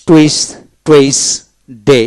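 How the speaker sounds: টুইস ডে broken into separate beats; syllable by syllable. Shown as a demonstration. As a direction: leave a long gap between টুইস and ডে. Word read out split into syllables.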